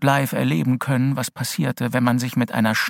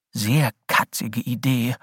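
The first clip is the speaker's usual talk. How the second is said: ordinary delivery, nothing marked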